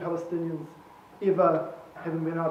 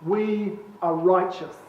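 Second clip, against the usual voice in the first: measured, earnest reading with weighted pauses; solemn letter reading; 3 dB louder than usual. Acted. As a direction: read a father's letter aloud, deliberately and with conviction. Reads a prisoner's letter aloud.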